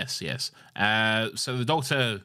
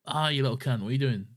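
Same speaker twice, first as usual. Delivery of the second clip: 1 mock rough villager; 4 semitones higher, faster than usual. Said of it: "They don't say that".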